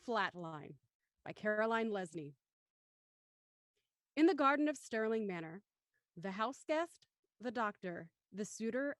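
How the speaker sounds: measured, deliberate script narration; story narration. A narrator's reading. Narrator opening episode five for the audience, measured narration. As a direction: set the scene like a radio-play narrator. Reads title and stage directions.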